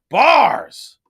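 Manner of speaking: high, very loud one-word exclamation; excited shout. Real, not acted. Streamer hyping a boxing line, excited shout.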